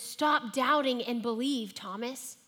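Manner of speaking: a touch of slow, stern scolding, stressing stop; hint at a mad, condescending tone without raising the voice; mild mock condescension. Shown as a demonstration. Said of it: "in a really mad, condescending voice".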